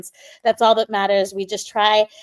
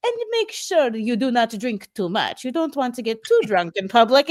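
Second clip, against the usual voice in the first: Dracula-ish voice. Retold or imitated. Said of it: "your voice sounded like Dracula".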